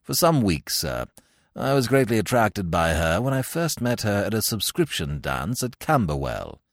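lightly voiced formal butler, composed; imperturbable valet. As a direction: explain evenly and deferentially. Jeeves explains calmly.

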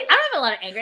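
chuckling through a protest; laughing denial. Real, not acted. Retelling her denial to the counselor, laughing. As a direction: laugh while insisting.

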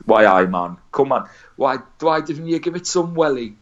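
lightly done Geordie accent, a hint of a footballer's voice; a touch of Geordie, mock coaxing; Geordie impression. A hint of Geordie as Shearer urges himself on. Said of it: "very stereotypically Geordie".

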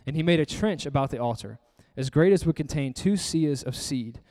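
measured, even Bible reading; scripture reading. A narrator's reading. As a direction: read the verse aloud to the congregation. Reads scripture aloud to congregation.

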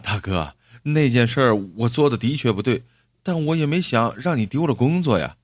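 mildly pleading, aggrieved apology; understated woeful protest; complaining plaintively. Acted. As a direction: plead helplessly with an angry man. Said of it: "赵二柱叫苦不失地说".

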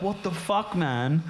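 high-pitched mock outrage; retold indignant protest. Retold quarrel over puking.

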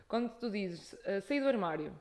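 hiccups while talking; hiccuping. Real, not acted. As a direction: speak between hiccups. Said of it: "eu estou com soluços".

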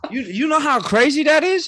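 laughing through the words; high laughing disbelief. Real, not acted. Laughing at Mahomes stat.

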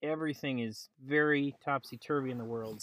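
muffled, talking under a blanket. Real, not acted. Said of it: "said the man talking under a blanket".

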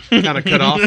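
chuckling through the words; laughing. Real, not acted. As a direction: giggle as you say it. Laughing at own brush-off story.

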